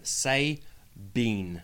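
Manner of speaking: Sabine as say-BEAN, ending drawn out; favourite mispronunciation. Shown as a demonstration. Guest demonstrates the botched name, Sabine as say-bean. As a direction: sound out Sabine as two words, say bean. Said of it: "Sabine is my favorite one".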